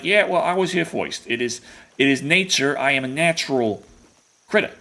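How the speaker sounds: put-on a light Brooklyn accent for the bear; playful Brooklyn accent, lightly done. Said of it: "Why you sound like you're from downtown, like, Brooklyn?".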